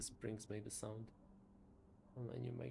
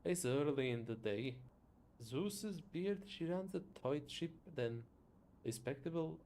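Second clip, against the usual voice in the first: Scottish attempt that comes out Irish; Irish-sounding accent; 3 semitones higher, 5 dB louder than usual. Teasing about the employer's tight ship, Irish-sounding accent. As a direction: lilt it, unsure where it lands. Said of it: "Is that Irish?".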